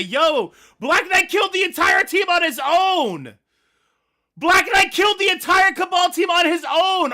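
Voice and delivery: loud, high, raging yells at the game; furious shout. Real, not acted. Gamer losing to Black Knight, furious high shouting. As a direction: scream your outrage at the broken game. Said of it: "I am so mad right now".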